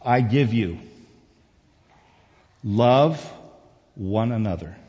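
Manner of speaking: measured phrases with long pauses; slow scripture reading. Real, not acted. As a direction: let each phrase sink in. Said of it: "I'm gonna read it slowly".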